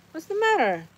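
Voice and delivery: high question to a pet, sliding down; pet talk. Real, not acted. Owner asks whining dog what's wrong, pet talk. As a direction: coo it to the dog, starting high.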